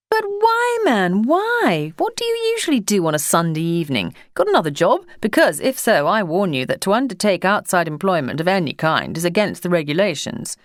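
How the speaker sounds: put-on a posh English official addressing a postman, in a high public schoolboy accent; high-pitched public schoolboy accent. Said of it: "in his high-pitched public schoolboyish accent".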